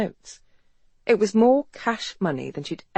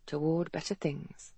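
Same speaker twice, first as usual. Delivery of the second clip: much softer, under her breath; beneath her breath; 10 dB quieter than usual. A narrator's reading. Doctor translating the carved Latin, softly under her breath. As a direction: murmur the Latin to herself. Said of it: "translated beneath her breath".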